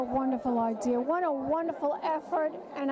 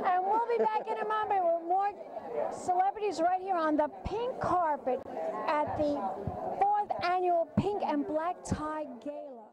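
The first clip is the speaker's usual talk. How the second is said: campy drag queen; 3 semitones higher than usual. Acted. Drag host signs off show.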